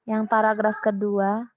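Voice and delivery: choppy online call, dropping out; words breaking up over bad connection; corrupted glitchy audio. Real, not acted. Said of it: "ini suaranya putus-putus".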